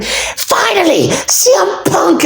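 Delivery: high, drawn-out mock announcer cry; stretched-out, high-pitched hype call without full volume; mock commentator scream. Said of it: "Michael Cole is sitting there screaming".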